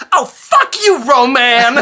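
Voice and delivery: very high, loud, laughing retort; mock outraged yell. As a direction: shriek it at him, half laughing. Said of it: "she looks up at him and goes".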